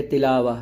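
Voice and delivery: "تلاوہ" said with a light T instead of a heavy one; unthickened misreading. Shown as a demonstration. Teacher imitating someone who misreads it, light T in "تلاوہ". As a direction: leave the T of "تلاوہ" thin, as in the mistake. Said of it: "ایسے ہی پڑھ دیں گے".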